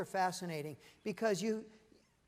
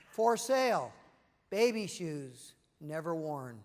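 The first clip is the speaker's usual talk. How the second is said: solemn recital; 4 semitones lower, slower than usual. Acted. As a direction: let each phrase land, falling away sadly. Recites Hemingway's sad six-word story.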